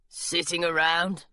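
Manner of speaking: slow, mopey little gargoyle; glum gargoyle. Acted. Gargoyle telling Jasper what they do, slow and mopey. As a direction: drag the words out, bored and sulky.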